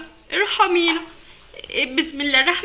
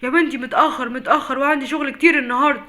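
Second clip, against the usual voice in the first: impatient; 4 dB louder than usual. Acted. Late father scolding daughter.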